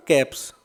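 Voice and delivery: "कैप्स" with a voiceless s after p; S sound at the end. Shown as a demonstration. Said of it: "एस का उच्चारण से से होता है". ("कैप्स" के अंत में स की आवाज़)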